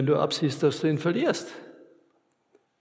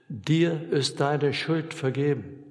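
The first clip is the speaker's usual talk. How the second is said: solemn absolution; slower than usual. Acted. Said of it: "im Namen Gottes zuspricht".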